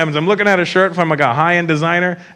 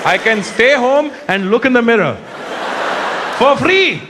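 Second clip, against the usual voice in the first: put-on Indian accent. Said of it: "That's the look on their face".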